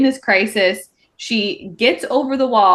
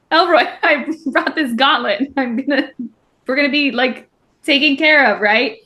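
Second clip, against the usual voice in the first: lightly acted excited pitch, higher voice; eager appeal; 4 semitones higher than usual. Girl pitching her gauntlet to Elroy, playfully eager. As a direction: pitch a plan with mock eagerness. Voicing Saris pleading to Elroy.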